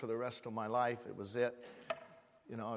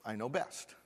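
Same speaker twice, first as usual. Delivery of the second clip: smug prayer; 2 semitones lower, 5 dB quieter than usual. Pretend. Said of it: "we pray this way".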